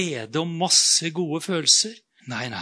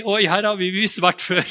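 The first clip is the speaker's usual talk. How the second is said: louder, knowing realisation; dawning goldfish; 4 semitones higher, 5 dB louder than usual. Retold or imitated. Goldfish realising it has been here before, louder. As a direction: catch on, a little exasperated. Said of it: "så må du jo si".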